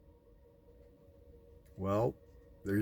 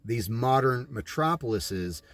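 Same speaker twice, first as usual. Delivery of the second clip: measured, even voice-over read; documentary narration; 3 semitones lower than usual. Acted. Narrator explaining scripture and cities, solemn voice-over.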